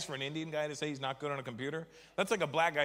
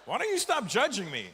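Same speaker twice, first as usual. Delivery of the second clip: mock indignant; 8 semitones higher than usual. To his friend, a hammed-up offended retort. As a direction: snap back, offended.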